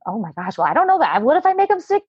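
acted-out fretting, climbing high; lightly played anxious dithering; mild mock worry. Acts out her own worry.

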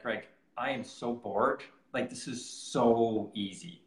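slow, drawn-out retold grumble; bored complaint. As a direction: drag it out as if bored stiff. Retells boredom on slow ride.

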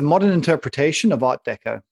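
pompous art critic voice; languid pretentious art snob. Pretend. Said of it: "I'm gonna sound like an art critic".

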